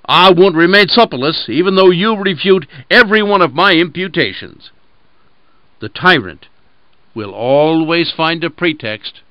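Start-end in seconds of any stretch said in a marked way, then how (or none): 0.1-4.7 louder, slightly higher wolf voice; wolf deciding to eat the lamb anyway; greedy wolf. Acted. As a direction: brush off the excuses and pounce.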